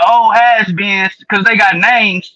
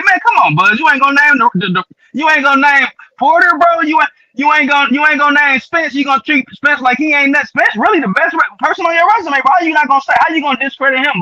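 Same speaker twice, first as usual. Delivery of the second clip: exasperated protest; 5 semitones higher than usual. Retold or imitated. Acted protest addressed to Bud.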